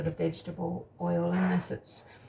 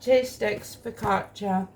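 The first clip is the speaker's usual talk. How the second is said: talking through a mouthful of bread; chewing while talking; mouth full. Real, not acted. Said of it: "talking with my mouth more".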